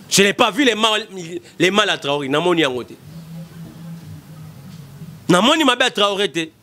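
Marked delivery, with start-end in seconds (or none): none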